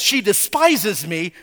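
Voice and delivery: building from steady to a loud demand for judgment; wife calling on the Lord to judge her husband; hot complaint. Acted. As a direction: let the anger swell to the last line. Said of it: "Oh, she's hot".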